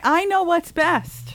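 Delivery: slow, smug and knowing; mock-smug, drawn-out boast. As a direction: savor your own wisdom. Smug boast about a singer.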